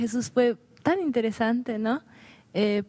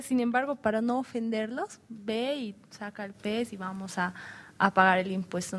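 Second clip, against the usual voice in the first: calm; 4 dB quieter than usual. Retold or imitated. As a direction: relay his words gently, without any push. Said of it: "habló con calma". (con calma, en voz más suave)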